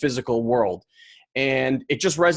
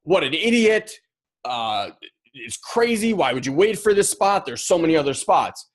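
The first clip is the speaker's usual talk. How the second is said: inner media voice. Retold or imitated. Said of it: "my media agency is pumping me like".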